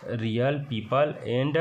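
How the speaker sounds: रियल पीपल said slowly, पीपल as pee-pul with no o; reading demo. Shown as a demonstration. Teacher modelling रियल पीपल for students, slow. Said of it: "इसको पढ़ेंगे पीपल".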